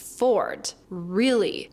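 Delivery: "Forward. Really." with retracted, rounded R's; American R. Shown as a demonstration. Teacher demonstrating the R, "Forward. Really." with strong retracted R's. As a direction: pull the tongue back on each R in "Forward. Really.". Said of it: "pull it back and then shoot it forward".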